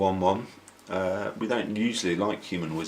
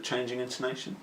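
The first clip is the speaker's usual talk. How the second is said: posh voice; 5 semitones higher, 6 dB quieter, faster than usual. Acted. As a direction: put on a posh voice. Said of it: "you always just make a posh voice".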